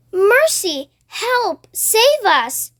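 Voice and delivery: high, panicked cries for help; frightened cry. Acted. Ladybird crying out in panic to everyone aboard. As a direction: cry out in fright as the monster nears. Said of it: "cried the ladybird".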